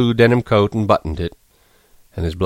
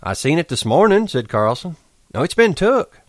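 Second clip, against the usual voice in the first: insisting; 8 semitones higher than usual. A narrator's reading. Carlson insisting.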